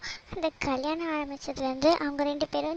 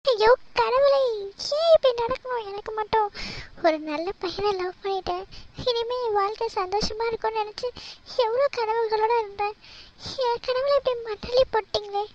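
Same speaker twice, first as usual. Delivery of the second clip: higher, tearful wail to God; crying lament; 4 semitones higher than usual. Acted. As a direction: cry out at fate, voice breaking. Jilted woman wails alone.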